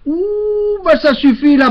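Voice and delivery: high, sharp office clerk calling her colleague; shrill jobsworth voice rising to a call; annoyed clerk. Retold or imitated. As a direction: play the fed-up clerk who wants him gone. Irritated clerk calls colleague.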